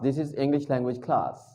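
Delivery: very slow, carefully spaced English; slow classroom demo; slow model sentence. Shown as a demonstration. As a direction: model it slowly for learners. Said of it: "ये teacher है, और ये class".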